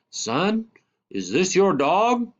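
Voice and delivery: scowling stranger. Acted. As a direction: challenge the boy like an angry stranger. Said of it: "He stood there scowling at me and said".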